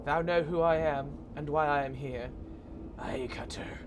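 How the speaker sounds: portentous voice sinking into a slow whisper; solemn spectral figure. Acted. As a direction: start firm, drop to a hushed whisper. Game creature's archaic dialogue.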